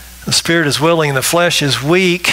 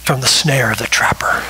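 whisper; 5 semitones lower than usual. Shown as a demonstration. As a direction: breathe the phrase as a warning. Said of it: "repeats psalm phrase in whisper".

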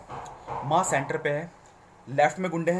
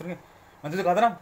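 scolding at home; 2 semitones higher, 5 dB louder than usual. Shown as a demonstration. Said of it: "घर में भी अगर आप भाई से बात करोगे".

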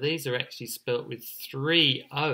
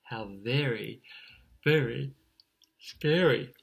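long pause before each last word; halting, apprehensive. Acted. Chick is all alone in the storm, halting apprehension.

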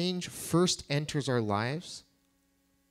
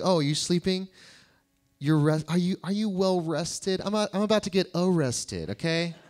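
higher mock-sarcastic jab; 4 semitones higher than usual. Jesus to his sleeping disciples, higher and sarcastic. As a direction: needle the sleepy friends, pitched up. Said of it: "he's got the sarcasm".

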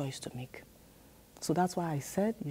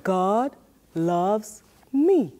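"God loves me" louder, very slow, weight falling on "me"; louder repeat, very slowly; louder, fuller take; 5 dB louder, much slower than usual. Shown as a demonstration. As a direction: say it again with more force, leading the kids. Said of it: "Can you do it again for me?".

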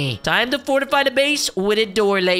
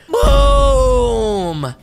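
loud hyped yell; hype shout; 5 semitones higher, 6 dB louder than usual. Real, not acted. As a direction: shout the attack. Attack shout.

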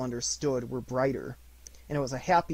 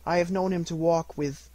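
higher mother's voice, faltering mid-thought; faltering cheerfulness; 4 semitones higher, 4 dB louder than usual. A narrator's reading. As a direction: try to sound cheerful, then falter and break off. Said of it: "steady, cheerful voice that only faltered once".

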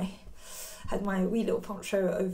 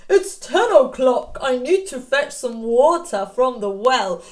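a lightly voiced wolf, a little louder; cheerful Mister Wolf; 6 dB louder than usual. Wolf telling the children he picks mushrooms, lightly voiced. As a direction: cheerfully announce your plans.

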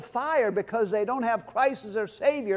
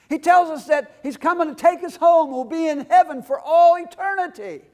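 higher, louder preaching at full force; fiery preaching; 8 semitones higher, 5 dB louder than usual. Acted. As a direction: drive it home to the congregation.

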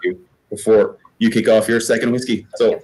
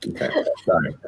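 choked up; 5 semitones lower, 5 dB quieter than usual. Real, not acted. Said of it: "I'm a little bit emotional right now".

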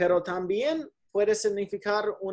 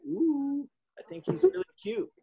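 put-on gushing girl voice; 7 semitones higher than usual. Shown as a demonstration. Teacher voices Alyssa's gushing line.

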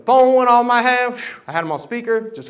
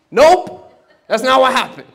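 higher, louder laughing denial; laughing nope; 4 semitones higher, 6 dB louder than usual. Real, not acted. To the congregation, laughing denial. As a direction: cut the fantasy with a laugh.

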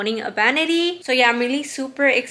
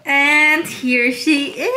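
excited reveal; 3 semitones higher, much slower than usual. Real, not acted. Unveiling new vanity table.

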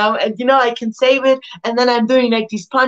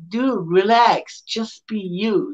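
calm reassurance; slower than usual. Retold or imitated. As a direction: talk a nervous friend down gently and slowly. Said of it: "and he's like".

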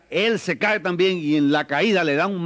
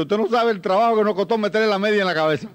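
elephant complaining; 5 semitones higher than usual. Acted. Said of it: "Dice el elefante".

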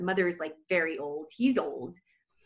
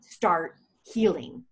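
high, slow, solemn rabbi voice; rabbi's blessing; 3 semitones higher, 5 dB louder, slower than usual. Retold or imitated. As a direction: bless her slowly like the old rabbi.

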